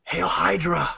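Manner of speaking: mock salute. Signing off with a villain salute.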